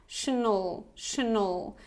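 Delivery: Tional as a reduced "shuh-nul"; schwa drill. Shown as a demonstration. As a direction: repeat Tional for learners, both vowels weak. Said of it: "how to pronounce this schwa sound".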